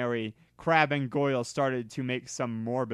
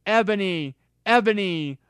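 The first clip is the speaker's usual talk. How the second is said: loud, higher worried calls; 6 semitones higher, 5 dB louder than usual. Acted. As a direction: call her name in alarm. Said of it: "asked Draco in a worried voice".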